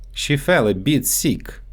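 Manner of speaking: sick said as "seek" with a long ee; Russian-accented "sick" stretched to seek. Shown as a demonstration. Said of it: "so they often get mixed up in English".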